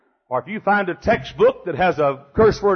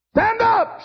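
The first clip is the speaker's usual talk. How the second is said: sudden shout. Real, not acted. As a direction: burst out like a rallying call. Breaks into hymn shout.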